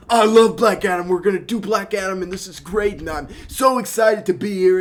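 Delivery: high, loud gushing enthusiasm; excited gushing. Retold or imitated. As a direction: gush like a thrilled star. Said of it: "He's like".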